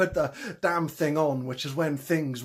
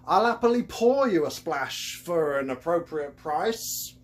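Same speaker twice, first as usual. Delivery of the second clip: Cockney con man. Acted. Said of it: "His thick Cockney accent".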